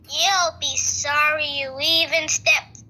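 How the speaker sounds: slow, drawn-out warning; acted threat. Child warning the greedy tooth fairy trapped in a jar, slow threat. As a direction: stretch each word into a mock threat.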